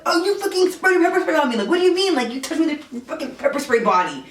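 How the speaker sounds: high-pitched, frantic accusation; freaking out. Retold or imitated. Woman in the shower blaming the man who burned her, freaking out. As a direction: reenact a panicked, outraged outburst. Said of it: "I'm freaking out".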